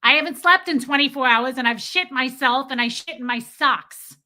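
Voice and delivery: a touch of mad, loud rant; retold anger. Telling off the man, retold angry rant. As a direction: retell it as an exasperated, mimicking outburst. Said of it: "I was so pissed".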